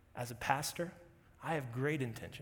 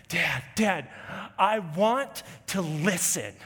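loud pleading scream, pitched up; screaming toddler; 5 semitones higher, 8 dB louder than usual. Retold or imitated. Daughter screaming to dad to escape her punishment, loud pleading. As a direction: scream it like a desperate three-year-old. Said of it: "she's screaming this at us".

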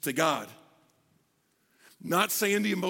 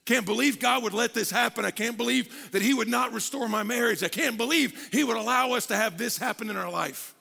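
dismayed complaint; 4 semitones higher than usual. Acted. Believer complaining to God about a marriage, dismayed. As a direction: protest to God in pained disbelief. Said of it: "like this".

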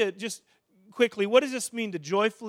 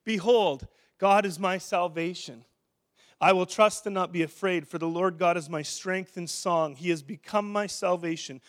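scripture read aloud; 2 semitones lower than usual. Acted. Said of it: "They would get up and read this".

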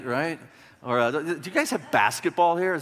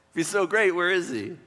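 lightly mocking taunt, pitched up; trash talk; 2 semitones higher than usual. Messenger taunting Jerusalem about its king, mild mockery. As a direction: needle them about their absent leader. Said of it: "He's just trash talking".

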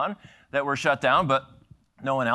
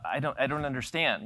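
dumb American; 5 dB quieter than usual. Retold or imitated. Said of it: "the dumb American thing".

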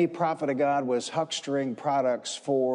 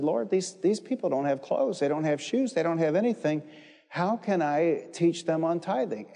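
protesting; 4 semitones higher than usual. Retold or imitated. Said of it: "Bud protested again and said".

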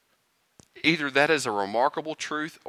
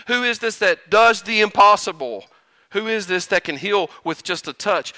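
rising, louder preaching questions; preacher climbing to the answer; building fervor; 5 semitones higher, 4 dB louder than usual. Real, not acted. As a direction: build each question higher.

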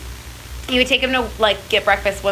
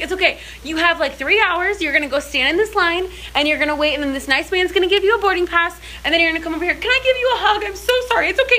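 sweet British man; 7 semitones higher than usual. Retold or imitated. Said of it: "this super sweet, um, British guy".

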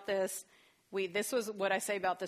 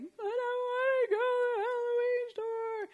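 put-on high, loud, slow wailing child; mock toddler crying; 6 dB louder, slower than usual. Toddler crying about missing the Halloween store, high wail.

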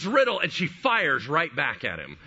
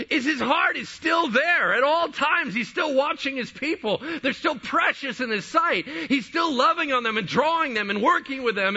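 high, forceful sermon delivery; impassioned preaching; 10 semitones higher, 4 dB louder than usual. Real, not acted. Preacher insisting God keeps his word, impassioned preaching. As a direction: drive each point home with raised, urgent voice.

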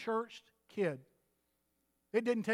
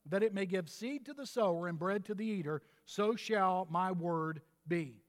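scripture reading. Acted. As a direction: read the verse with weight. Reads scripture verse.

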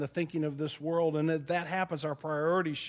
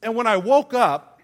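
laughing; 3 semitones higher, 8 dB louder than usual. Real, not acted. Laughing at own story.

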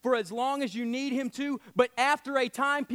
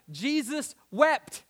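drawn out slowly; much slower than usual. Shown as a demonstration. Preacher lingering on the verse, drawn out. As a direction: stretch Jesus wept out, very slow. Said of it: "listen to these next two words".

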